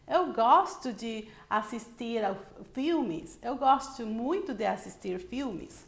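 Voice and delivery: lightly lilting "Eu gosto de assistir a filmes"; musical Portuguese intonation. Shown as a demonstration. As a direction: give "Eu gosto muito de assistir filmes" a gentle sing-song. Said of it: "they speak with music".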